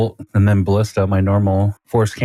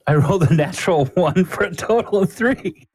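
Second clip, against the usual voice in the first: much higher pitch, laugh breaking in; incredulous at your own terrible luck; laughing disbelief; 9 semitones higher than usual. Real, not acted. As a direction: report it in high, laughing dismay. Same disastrous roll a second time.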